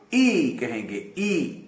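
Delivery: ای said with a sharp, sudden onset; sharp e sound. Shown as a demonstration. Teacher demonstrates the sharp ای for students. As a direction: start ای crisply, glottal catch first. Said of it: "ویسے ہی یہ sound بھی تیز آواز کے ساتھ".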